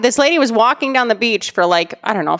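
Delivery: ordinary talk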